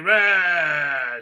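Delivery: drawn-out shouted roar; hammed-up battle roar; mock villain roar.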